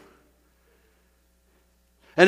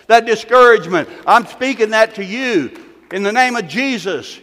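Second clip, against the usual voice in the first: preaching at full force. Acted. Pastor commanding cancer to die, preaching hard. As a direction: preach it hard over the crowd.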